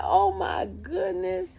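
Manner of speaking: very high, drawn-out squeal; comic high-pitched impression, stretched out; mimicking someone. Staffer amazed at the tearful caller, mimicked squeal. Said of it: "She went like this".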